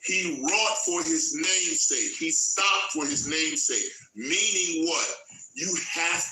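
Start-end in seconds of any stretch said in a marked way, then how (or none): 0.0-3.9 slow, each word laid down; slow, deliberate restatement; slow emphasis. Shown as a demonstration. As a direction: drive home "wrought" and "stopped". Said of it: "Stop. Listen".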